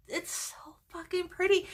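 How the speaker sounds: high awed whisper; hushed gushing. Real, not acted. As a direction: whisper it, delighted. Admiring the swatch.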